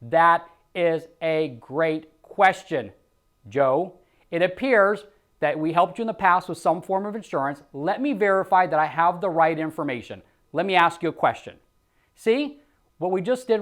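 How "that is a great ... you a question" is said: calm, friendly agent reply; easy reassuring sales-rep read; sales script demo. Shown as a demonstration. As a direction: model the rep's smooth answer. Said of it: "we want to say".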